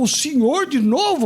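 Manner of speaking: annoyed surprise. Retold or imitated. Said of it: "Ele já olhou".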